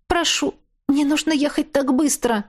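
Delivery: high, begging plea; pleading. A narrator's reading. Sick captive woman begging the driver.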